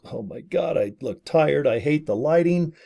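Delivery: dismayed self-critique. Retold or imitated. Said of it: "look at it yourself and go".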